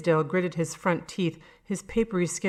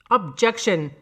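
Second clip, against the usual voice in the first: louder sudden objection; sharp outburst; 3 semitones higher, 6 dB louder, slower than usual. Acted. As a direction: blurt it out at the trial. Defendant outburst in court.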